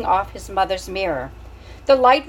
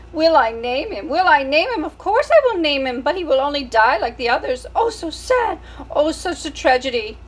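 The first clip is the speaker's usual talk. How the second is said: put-on French accent rising higher and louder into wails; dramatic French mother; 6 semitones higher, 4 dB louder than usual. French mother wailing that her baby will die. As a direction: build to melodramatic French despair. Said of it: "She was a French mouse".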